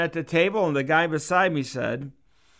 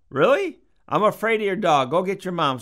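mock nervous; 4 semitones higher than usual. Retold fear of pit bull.

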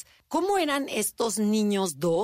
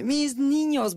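doting sister-in-law; 7 semitones higher, 4 dB louder, much slower than usual. Retold or imitated. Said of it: "tengo una cuñada que dice".

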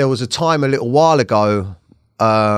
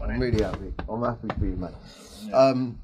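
very quiet, fighting back tears; choked up; 2 semitones lower, 7 dB quieter than usual. Real, not acted. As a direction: voice sinking away as the emotion takes over. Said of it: "trying my hardest not to cry".

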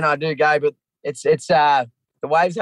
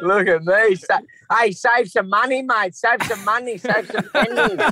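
mock show-off; 7 semitones higher than usual. Mocking self in music clip.

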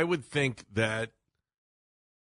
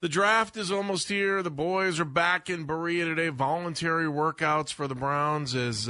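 radio show open; 3 semitones higher than usual. Acted. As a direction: open the segment like a host. Show intro after break.

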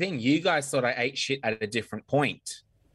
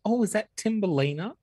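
gawking passerby; 9 semitones higher than usual. Retold or imitated. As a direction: gasp it like a shocked stranger. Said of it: "people going past going".

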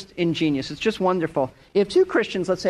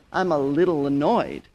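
downplaying; 4 semitones lower than usual. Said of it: "But don't say".

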